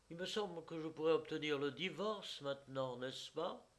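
chatting airily about divorce; lightly voiced young wife. A narrator's reading. Wife to husband's friend, airy and careless. Elena's voice in narration.

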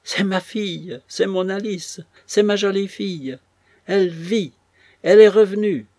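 high, loud cries of joy, building; ecstatic cry. A narrator's reading. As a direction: cry out that she lives. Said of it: "cria la vieille". (cri de joie aigu et fort, qui monte)

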